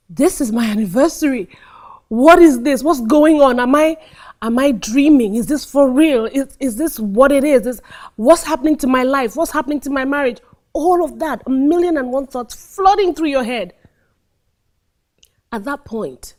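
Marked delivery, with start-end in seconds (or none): 0.1-10.4 rising panic. Shown as a demonstration. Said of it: "in your head, you're going".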